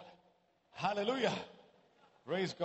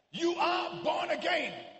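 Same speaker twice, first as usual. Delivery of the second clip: fervent preaching. Real, not acted. Preacher declaring to the congregation who they are in Christ, fervent preaching. Preacher proclaims at full force.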